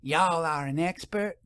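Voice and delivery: lightly voiced suspicious storekeeper; skeptical shopkeeper. A narrator's reading. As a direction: shopkeeper questioning the professor.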